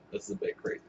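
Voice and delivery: voiceless whisper of "This is a bit crazy"; "This is a bit crazy" breathed as a whisper; whispered repeat. Shown as a demonstration. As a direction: whisper it back like a secret.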